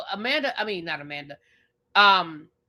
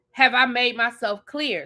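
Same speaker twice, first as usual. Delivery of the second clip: mock stern. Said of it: "you hit them with the".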